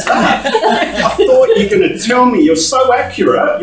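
high and loud, laughing as you speak; laughing through words. Real, not acted. A preacher retelling his inner grumbling, laughing high and loud. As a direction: get the words out through giggles.

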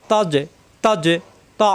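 very slow, deliberate drill of তজে; slow drilled syllables. Shown as a demonstration. Teacher drilling students on তজে, very slow. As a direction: stretch তজে out slowly. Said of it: "এই পাঁচটা করে সাকিন আসলে কলকলা হবে".

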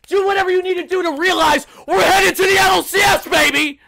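high, shouted burst of joy; exultant outburst. Real, not acted. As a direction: explode from hush into celebration. Bursting into celebration after hushed lines.

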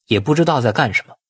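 usual speaking voice

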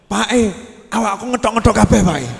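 lightly voiced child grumbling; mock complaining child. Imitating a child complaining to father on waking, mock grumble. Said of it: "anak kecil bangun sambat, ngeluh".

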